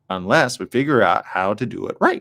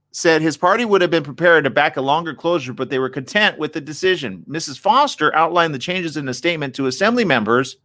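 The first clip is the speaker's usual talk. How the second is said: reading aloud; 5 semitones higher than usual. Real, not acted. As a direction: read the article out, slightly raised voice.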